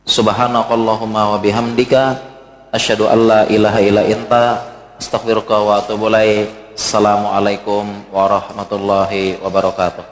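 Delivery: low, even Arabic recitation; closing prayer. Real, not acted. Preacher ending the study session for the congregation, low prayerful recitation.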